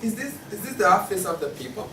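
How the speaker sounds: a confused newcomer fumbling for words; bewildered visitor. Acted.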